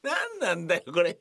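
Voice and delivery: high, incredulous what-the-hell; mock outrage at the giant prop; exasperated retort. Exasperated retort at the actor's huge prop.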